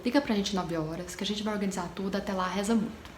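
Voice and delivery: understated drowsy retold reply; sleepy voice. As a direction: speak as if just woken, only a touch drowsy. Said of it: "atendeu com voz de sono".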